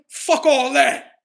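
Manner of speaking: rowdy dismissal; hyped slow call. Acted. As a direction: stretch it out all riled up.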